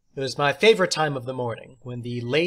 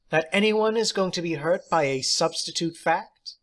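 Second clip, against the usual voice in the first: theatrical teacher; 4 semitones higher than usual. Acted. Substitute teacher praising John, high and theatrical. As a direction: play the odd substitute, grand and pleased.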